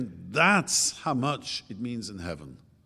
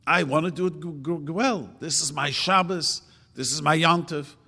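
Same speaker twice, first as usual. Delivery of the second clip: joyful declaration; 5 semitones higher, 4 dB louder than usual. Pretend. Teacher voicing a glad worshipper, proud and eager. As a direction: say it like you truly love it. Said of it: "get ourselves used to, to say".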